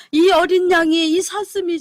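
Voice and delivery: a retold loud cry to God; crying out to heaven. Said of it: "울면서 하늘을 쳐다보고 부르짖는 거예요".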